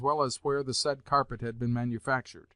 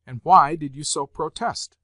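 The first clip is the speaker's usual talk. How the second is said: louder demanding question; indignant question; 3 semitones higher, 8 dB louder than usual. A narrator's reading. Grandmother demanding answer from general, indignant. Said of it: "she inquired of the general".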